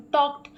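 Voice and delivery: टॉक्ड ending in a crisp T sound. Shown as a demonstration. Teacher showing learners the past-tense ending, टॉक्ड said with final T. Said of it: "एंड में टी का sound आ रहा है".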